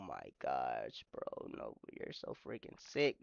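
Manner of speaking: whispered, low and soft in disgust; hushed grossed-out whisper. Real, not acted. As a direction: breathe it out like you're repulsed. Disgusted aside after the clip.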